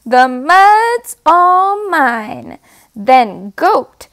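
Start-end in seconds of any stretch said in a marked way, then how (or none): 0.0-2.6 possessive pig. Acted. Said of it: "Pig says".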